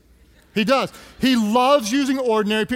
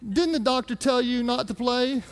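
lightly voiced nurse; 2 semitones higher, 4 dB quieter than usual. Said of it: "she said".

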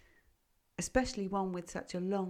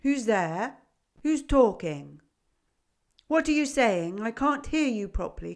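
loud, high, gruff and cobwebby; creaky old goat calling out; 3 semitones higher, 11 dB louder than usual. A narrator's reading. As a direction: bellow like a half-deaf old goat. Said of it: "A voice gruff and cobwebby".

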